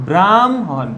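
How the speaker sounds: ব্রাহ্মণ said as bram-hon, m before h; teacher says ব্রাহ্মণ as bramhon; pronunciation demo. Shown as a demonstration. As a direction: model ব্রাহ্মণ with m ahead of h. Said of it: "উচ্চারণ কি হবে?".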